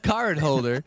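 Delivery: high, loud, grand announcer voice; pompous mock announcer. He introduces his friend to the woman in a grand voice. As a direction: present him like a fancy herald.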